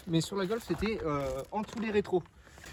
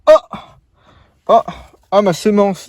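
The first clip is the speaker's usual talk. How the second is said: mock surprised gasp; 2 semitones higher, 10 dB louder than usual. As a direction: act out a fake shocked discovery, loudly. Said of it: "j'ai fait".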